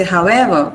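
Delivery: however with the weight on EVER; stress on EVER. Shown as a demonstration. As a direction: stress the second half of "however". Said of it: "the second element is stressed".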